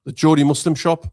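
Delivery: Jodi Muslim shop in a Jodi accent. Shown as a demonstration. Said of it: "Said it in the most Jodi accent".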